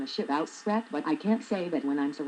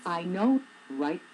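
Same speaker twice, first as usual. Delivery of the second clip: imitating coworker; 2 semitones higher, slower than usual. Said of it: "tall tan one would say".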